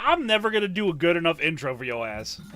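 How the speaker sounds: sudden loud high curse at herself; frustrated outburst. Real, not acted. Host cursing at her own failed intro, loud outburst. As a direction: blow up at the intro in mock rage.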